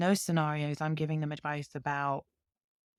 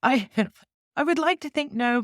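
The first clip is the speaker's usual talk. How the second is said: laughing; 9 semitones higher, 5 dB louder than usual. Real, not acted. Laughing at accent compliment.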